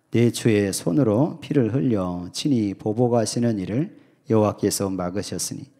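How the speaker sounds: slow, solemn 내 주의 손으로 read out as scripture; unhurried verse reading. Shown as a demonstration. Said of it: "한번 먼저 읽겠습니다".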